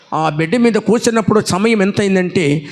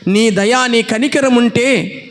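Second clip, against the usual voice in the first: pleading prayer; 2 semitones higher than usual. Retold or imitated. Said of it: "అడుగుతున్నా తండ్రితో".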